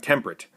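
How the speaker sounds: "temperate" said as two syllables, "temp-rate"; dropped syllable. Shown as a demonstration. Teacher showing how to cut a syllable, "temperate" as "temp-rate". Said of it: "Get rid of the E in the middle".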